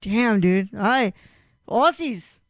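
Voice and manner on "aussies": lightly put-on Aussie accent; attempted Australian accent. Co-host mimics Aussies making a ham dog, bad Australian accent. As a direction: have a clumsy go at an Australian accent. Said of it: "I can't do an accent".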